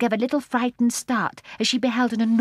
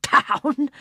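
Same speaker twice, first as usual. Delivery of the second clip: slow, high, indignant snort; the fat old gentleman snorts at Jane; 7 semitones higher, 5 dB louder, much slower than usual. A narrator's reading. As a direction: huff it out, deeply offended. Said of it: "he snorted".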